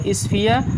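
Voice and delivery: "स्फीयर" as isfee-aa, no r yet, rising; built up without r. Shown as a demonstration. Teacher builds the word before adding r, "स्फीयर" ending in open aa. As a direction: leave "स्फीयर" open on a long aa. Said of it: "आर से रा होगा".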